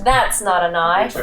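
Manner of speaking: mild Australian "That's not a knife"; Australian accent. Shown as a demonstration. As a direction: try the Aussie line again. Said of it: "you have to say".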